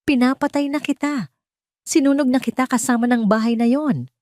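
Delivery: a man's threat caught on tape; Argus on the recording. A narrator's reading. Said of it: "ang boses ni Argus mula sa recording". (banta ni Argus sa recording)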